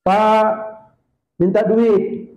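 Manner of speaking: a beggar calling up at the door; lightly voiced whining beggar; pleading beggar. Beggar begs for money.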